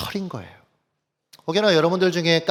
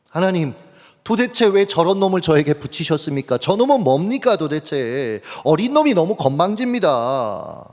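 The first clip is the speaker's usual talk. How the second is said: mock complaint in prayer; arguing with God. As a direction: plead a grievance, half-earnest, slightly raised. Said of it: "하나님한테 따지게 되는 거예요". (하나님께 따지듯 하소연하는 흉내)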